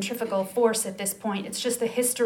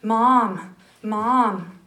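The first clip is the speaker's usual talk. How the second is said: put-on child calling out; 6 dB louder, much slower than usual. Child calling mother to come.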